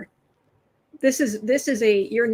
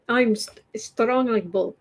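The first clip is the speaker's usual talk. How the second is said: put-on Russian accent. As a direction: play a tough Russian strongman in a Russian accent. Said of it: "worst Russian accent ever".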